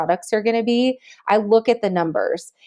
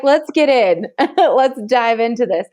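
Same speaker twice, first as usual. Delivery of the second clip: excited; 3 semitones higher, 3 dB louder than usual. Retold or imitated. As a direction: jump in with glee. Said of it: "I was like".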